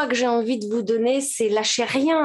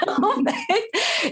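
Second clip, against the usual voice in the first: laughing; 10 semitones higher than usual. Real, not acted. Laughing after quote.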